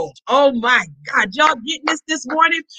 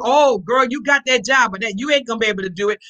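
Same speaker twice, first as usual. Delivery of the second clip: mock naysayer; 2 semitones lower, faster than usual. Pastor imitating a doubter dismissing a woman's new job, mocking. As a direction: mimic a doubting friend cutting you down. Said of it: "somebody say to you".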